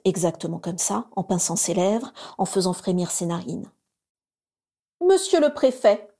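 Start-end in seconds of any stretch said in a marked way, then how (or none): 5.1-6.1 higher, presumptuous mimicry of Lucius; imitating Lucius. A narrator's reading. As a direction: mimic his haughty intonation. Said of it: "en imitant l'intonation présomptueuse de Lucius". (imitation présomptueuse de Lucius)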